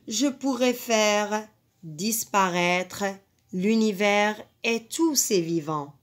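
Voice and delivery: slow, measured poem reading; poem recitation. Acted. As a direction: read it like a poem to the class. Teacher reads poem aloud.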